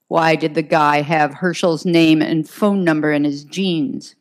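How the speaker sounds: lieutenant pushing the witness, understated demand; mild demand. Acted. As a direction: press him for an answer. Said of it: "McGivney demanded".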